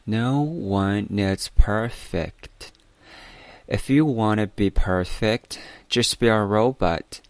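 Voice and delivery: slow, deliberate English read-aloud for learners. Shown as a demonstration. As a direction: read the morning passage slowly and clearly. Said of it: "再给大家来读一遍今天的晨读内容".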